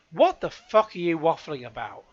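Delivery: loud, incredulous swearing; exasperated. Real, not acted. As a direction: let rip in disbelief. Exasperated reaction to statement.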